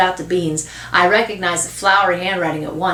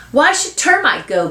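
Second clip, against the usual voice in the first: put-on high, indignant boy; arguing; 7 semitones higher than usual. Boy defending his dog to mother, arguing. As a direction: argue back at your mother. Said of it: "Bean argues".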